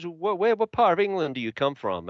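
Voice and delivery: high-pitched imitation of an American girl. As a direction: lightly put on an American girl's curious voice. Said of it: "I met an American, lovely girl".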